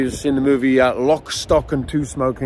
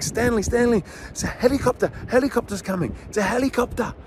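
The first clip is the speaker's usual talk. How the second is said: high, excited hyping of a helicopter; big excited drama; 8 semitones higher, 3 dB quieter than usual. Retold or imitated. Dad hyping a helicopter to his son, high excitement. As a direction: sell it to a toddler as a thrill. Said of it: "I was making a big drama out of it".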